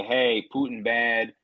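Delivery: slow, dumbed-down slogan; mock slogan. Podcaster mocking a government rallying cry, slow and blunt. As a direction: chant it like a simple slogan. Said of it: "and say".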